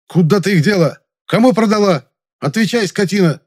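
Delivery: angry shout. Acted. Young man interrogates the maid, angry shout. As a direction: yell at her furiously. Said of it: "зло сказал я".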